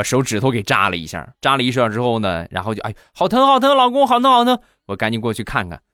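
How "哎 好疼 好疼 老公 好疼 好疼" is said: high-pitched whimpering wife voice; wife's high whine. Acted. Wife calls husband after pricking finger, high whimpering whine.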